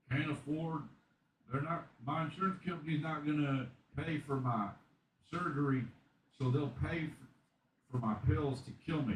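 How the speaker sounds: documentary patient. Retold or imitated. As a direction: plead your case like a patient on camera. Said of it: "there was a guy that's like".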